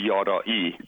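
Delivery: YARAI said as yah-rah-EE; real pronunciation. Shown as a demonstration. Guest giving host his surname, real pronunciation. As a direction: native "Yarai" with open ah vowels. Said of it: "the real pronunciation is".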